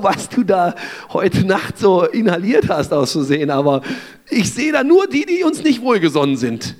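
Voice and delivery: a hint of a cheeky servant, mocking his master; lightly voiced servant, half teasing. Servant pulls the curtain aside, teasing Elisha, lightly voiced. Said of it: "stelle ich mir vor".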